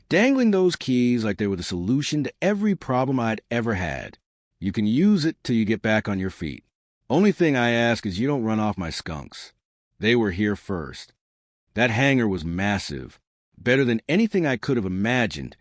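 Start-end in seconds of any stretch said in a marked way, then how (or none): 4.6-11.1 put-on light Texas accent, easy and unhurried; old vet with a slight Texas drawl. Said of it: "that slight Texas drawl".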